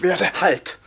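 high, loud; commanding shout. Acted. Karl halting the robber, shouting. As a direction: stop him with a shout.

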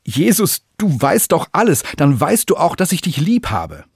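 exasperated outburst at being asked again; hurt, indignant protest; upset. A narrator's reading. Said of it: "schon ein bisschen aufgebracht".

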